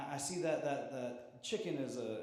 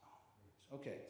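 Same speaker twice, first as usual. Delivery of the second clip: resigned reply; 4 semitones lower, 11 dB quieter, slower than usual. Retold or imitated. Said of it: "I was like".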